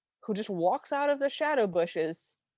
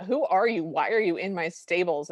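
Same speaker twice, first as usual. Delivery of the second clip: mild mock yell, louder at the start; retold screaming; 4 dB louder than usual. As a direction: imitate an outraged scream, only half raised. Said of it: "the prince is just screaming at them".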